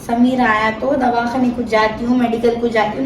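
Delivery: sarcastic echo of her words; mocking repeat. Schwiegertochter äfft die Worte nach.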